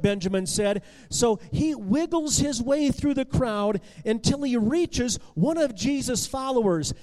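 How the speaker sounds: plain reading voice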